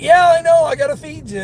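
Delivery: high voice to the fish. Retold or imitated. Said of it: "I'm like".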